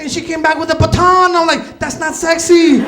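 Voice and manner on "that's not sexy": dismayed deadpan. Retold or imitated. Seeing the baton.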